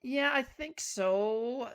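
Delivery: slow, breathy whispered yeah I think so. Real, not acted. Answering the co-host's question, slow whisper. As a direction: whisper it, unsure. Hesitant reply to co-host.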